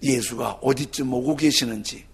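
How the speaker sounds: ordinary delivery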